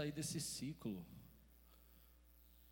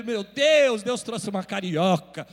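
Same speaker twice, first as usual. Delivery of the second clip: amazed exclamation; 17 dB louder, slower than usual. Retold or imitated. Retold own amazed exclamation.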